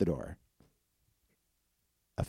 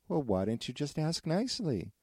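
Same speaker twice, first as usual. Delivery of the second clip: piggy voice; 7 semitones higher than usual. Acted. Piggy scolds wolf.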